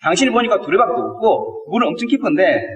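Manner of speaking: baffled, slightly sarcastic. Retold or imitated. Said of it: "황당해하면서 약간 빈정상한 투로".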